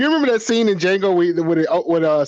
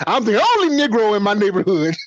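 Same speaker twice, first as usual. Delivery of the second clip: smug, proud, bragging boastful tone; 3 semitones higher than usual. Mocking what a commentator tells everybody: imitating Larry Elder bragging.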